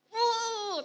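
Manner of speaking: high, loud "Oh"; a father suddenly caught out; mock startled dad; realizing father.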